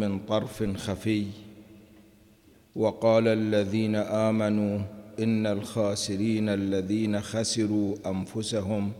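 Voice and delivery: measured, chanted Quranic recitation. Acted. Teacher reciting verses before explaining them, solemn chant.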